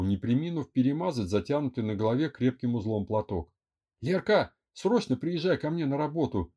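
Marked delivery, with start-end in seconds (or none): 4.0-6.5 whispering on the phone. Acted. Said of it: "заговорческим тоном громко шептала в трубку Эля".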